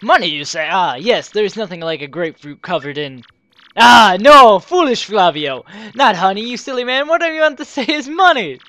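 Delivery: grand, theatrical rich trader; flamboyant merchant Flavio. Acted. Flavio the trader boasting about his wealth, theatrical. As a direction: play the pompous rich merchant.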